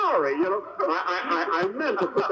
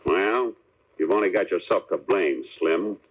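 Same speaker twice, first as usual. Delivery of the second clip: mock tough hero; 8 semitones lower than usual. Benny plays Steve in rehearsal.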